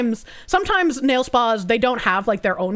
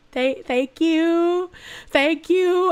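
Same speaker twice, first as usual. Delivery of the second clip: flustered thanks; 4 semitones higher, much slower than usual. Retold or imitated. Flustered by a stranger's compliments.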